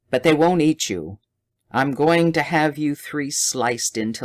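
loud, menacing villain threatening his captives; Bram's mad threat. A narrator's reading. Madman Bram threatens Dodd through the door, loud and gloating. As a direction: gloat over the trapped men, cruel and loud. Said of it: "Bram's screech of madness".

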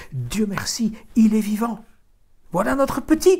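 high, loud cry of relief; joyful cry. A narrator's reading. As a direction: shout it out, overjoyed to find him. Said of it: "cria-t-elle à son mari".

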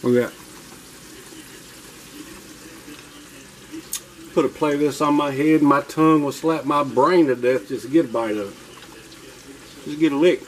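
chewing while talking; mouth full. Real, not acted. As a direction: talk through a mouthful. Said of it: "I hate talk with my mouth full".

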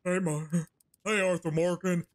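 hint of a wrestler's hearty call; Stone Cold Steve Austin. Mimicking a wrestler joining a blackjack game, light impression. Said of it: "sound like Stone Cold Steve Austin".

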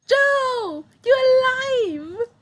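high, loud overjoyed shout of a name; relieved cry. Acted. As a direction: call out to a friend you thought lost. Girl finds friend alive.

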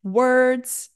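"words" said slowly with full emphasis; single out "words" as the stressed word. Shown as a demonstration. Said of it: "I stressed the word words".

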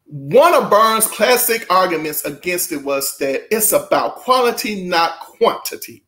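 deliberate, emphatic reading voice; measured read-aloud with punched phrases; book read-aloud. Acted. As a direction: read it out to an audience with weighted key words.

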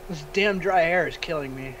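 nosebleed voice; talking with a bleeding nose. Real, not acted. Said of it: "my nose started bleeding".

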